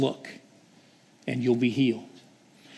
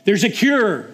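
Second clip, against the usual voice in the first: joyful shout; 4 semitones higher than usual. Acted. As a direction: shout it out to the whole camp. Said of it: "and he's shouting".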